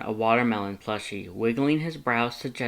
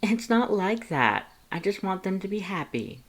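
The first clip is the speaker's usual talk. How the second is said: embarrassed protest; 9 semitones higher than usual. A narrator's reading. Embarrassed Lust denies polyamory to Frisk, flustered and higher. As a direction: deny it while blushing. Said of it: "Lust felt his face heat up".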